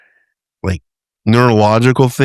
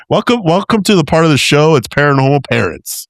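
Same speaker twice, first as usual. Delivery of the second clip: higher, playful segment announcement; mock show host; 6 semitones higher than usual. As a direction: welcome listeners like a joking host.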